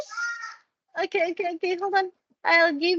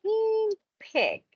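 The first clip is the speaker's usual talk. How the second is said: put-on reading to a toddler; 6 semitones higher than usual. Shown as a demonstration. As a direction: say it clearly like teaching a toddler. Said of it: "Can you say".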